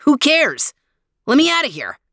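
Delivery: high, pushy sun voice; petulant sun demanding freedom; warm beaming sun voice. A narrator's reading.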